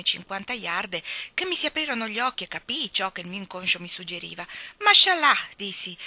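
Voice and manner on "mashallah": a high, loud burst of recognition; excited exclamation. A narrator's reading. Traveller greeting the old man, a loud delighted cry. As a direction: cry it out as the truth dawns on you.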